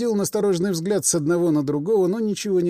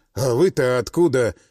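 usual speaking voice

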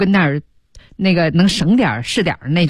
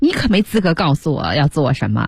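usual speaking voice

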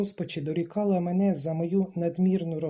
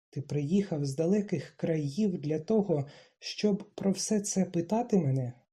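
ordinary delivery, nothing marked

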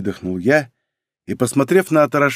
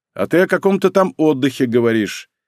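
ordinary delivery, nothing marked

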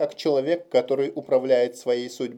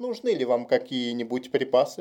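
usual speaking voice

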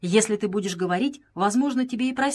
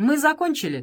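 taunting, sneering, mocking, pitched higher; 6 semitones higher than usual. Dede, opening the door to leave, speaks to the police officers, mocking with a smile. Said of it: "сказал он с насмешливой улыбкой полицейским".

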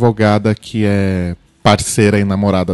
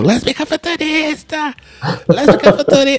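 mock very high, shrill crowd-like shouting, high and loud. Describing an audience member yelling through every show, imitating someone shouting. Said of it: "esta mesma criatura fica gritando o show inteiro".

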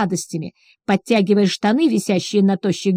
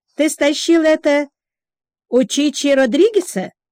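teasing, derisive, mocking tone, pitched up; 6 semitones higher than usual. Annie speaks to her oddly dressed colleague Ches, mocking question. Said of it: "насмешливо поинтересовалась Анни".

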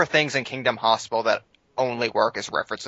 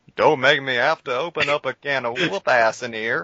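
completely serious, in-character delivery; 3 semitones higher than usual. Talking about a scene from the pilot, quoting a line in an Andy impression. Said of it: "You do a pretty good Andy".

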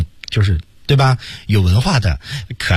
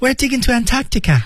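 very high, fast, cutesy, innocent voice. Quoting what a cute guy said, in a mock-cute innocent voice. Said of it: "但他很萌，他说。".

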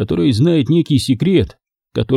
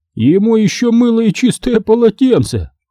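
high, groaning, complaining tone; 9 semitones higher than usual. A sergeant-major, ordered to supply a newcomer with everything, groaning. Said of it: "застонал Гиршман".

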